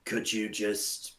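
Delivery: slow, drawn-out elf request; a hint of a weary, slow-talking elf; lightly voiced elf.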